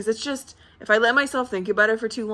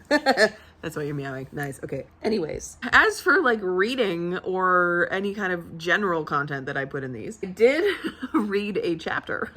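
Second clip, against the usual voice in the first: usual speaking voice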